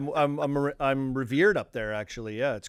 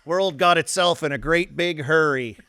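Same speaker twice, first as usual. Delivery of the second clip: put-on slow, wistful old-timer voice, a bit louder; drawn-out, lightly voiced old con; Brooks from Shawshank; 3 semitones higher, 6 dB louder, slower than usual. Host doing Brooks from Shawshank, slow old-timer voice. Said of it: "That's Brooksy".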